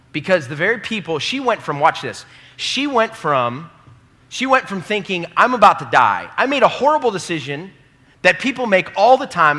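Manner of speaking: high, loud, desperate cry; frightened woman. Acted. Preacher voices the woman about to die, high and loud. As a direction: plead for your life at full voice.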